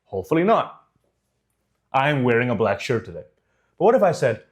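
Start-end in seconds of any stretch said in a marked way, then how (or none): 1.9-3.2 steady statement without hesitation; full conviction. Shown as a demonstration. Coach repeats the confident take for listeners, full conviction. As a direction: say it as settled fact, falling at the end. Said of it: "Did you sense any hesitation in my voice?".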